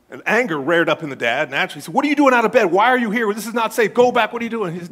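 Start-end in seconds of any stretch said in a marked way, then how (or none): 1.9-4.7 a sharp, louder and higher shout at his son; a father's scolding yell, loud and high; angry father. Retold or imitated. Angry father confronts son outside.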